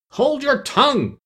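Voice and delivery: high, slow furious command; raging queen. Acted. Queen orders Alice to be silent, raging. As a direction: silence her with fury.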